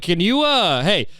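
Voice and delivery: high, pushy outrage at the mom; exasperated demand. Retold or imitated. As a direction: demand she step in, fed up. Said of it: "It's just like".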